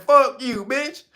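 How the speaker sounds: high pitched defiant jab; mock president's retort. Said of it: "that's what the Ugandan president said".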